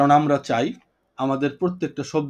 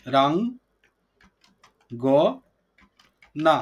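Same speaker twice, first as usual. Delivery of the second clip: "বি রাং গ না" with a long silence between syllables; slow syllable breakdown; much slower than usual. Shown as a demonstration. Teacher recapping the split for the class, "বি রাং গ না" in slow separate syllables. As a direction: sound out "বি রাং গ না" one piece at a time. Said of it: "ধীরে ধীরে উচ্চারণ".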